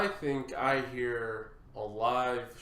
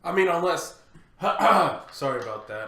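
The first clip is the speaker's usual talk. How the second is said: raspy, throaty voice; rough voice from allergies; smoker's rasp; 4 dB louder than usual. Real, not acted. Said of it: "I got smoker's voice today".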